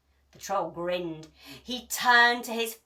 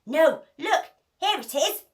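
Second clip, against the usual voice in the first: high, eager cry of discovery; excited cry; 7 semitones higher, 5 dB louder than usual. A narrator's reading. Peg to the pirates, finding the chest, excited cry. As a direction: call out the find, thrilled. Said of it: "cried Peg Polka Dot".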